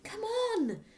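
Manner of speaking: high, loud rousing call; battle cry. Acted. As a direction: Matilda bursting into the room. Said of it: "Matilda cried".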